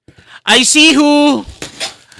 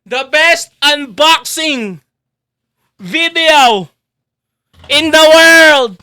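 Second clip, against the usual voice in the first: hype announcer; slower than usual. Pretend. Streamer billing the world's best unboxing, announcer style. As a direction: stretch each phrase like a ring announcer.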